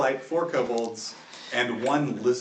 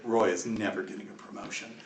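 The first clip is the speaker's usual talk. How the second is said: low, softer guard's aside; grumbled mumble; 6 semitones lower, 10 dB quieter than usual. Acted. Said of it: "and one mumbles".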